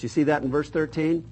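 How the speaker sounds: usual speaking voice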